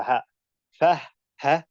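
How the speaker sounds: HA and FA ending in audible air; short syllables released on a puff of breath; whispered-letter demo. Shown as a demonstration. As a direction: let air flow out after "ha" and "Fa". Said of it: "the air that comes afterwards".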